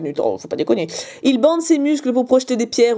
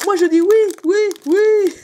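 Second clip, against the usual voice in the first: Chris Marquez; 7 semitones higher than usual. Retold or imitated. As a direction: announce it like a TV judge. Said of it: "C'est Chris Marquez". (imitation légère de Chris Marquez)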